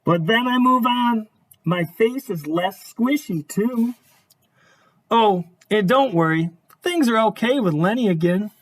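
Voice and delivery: storybook narration. A narrator's reading. Reads picture book aloud.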